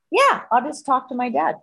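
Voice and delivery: lightly mocked easy assurance; breezy promise. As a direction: toss off a promise in his voice. Voices boyfriend's breezy promise.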